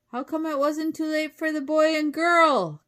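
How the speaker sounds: high, very loud wolf yell; wolf calling out. A narrator's reading. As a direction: yell the complaint, swelling toward the end. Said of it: "called the wolf".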